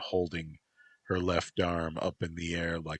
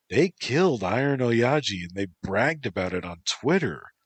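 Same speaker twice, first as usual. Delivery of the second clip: Antropos, warning; 4 semitones higher, 6 dB louder than usual. Acted. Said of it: "Antropos replied".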